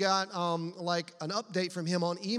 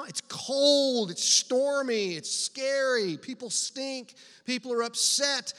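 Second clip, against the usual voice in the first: vivid building; 5 semitones higher, 5 dB louder, slower than usual. Real, not acted. Preacher building vivid scene.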